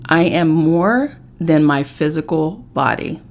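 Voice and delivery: slow, measured affirmation read. Acted. Reading an affirmation to viewers, slow and measured. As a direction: lay out each line with pauses.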